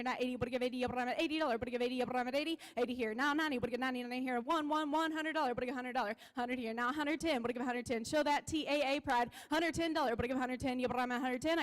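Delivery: rapid rolling auction chant; auctioneer. Acted. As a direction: rattle off the bids like an auctioneer. Auction chant bid calling.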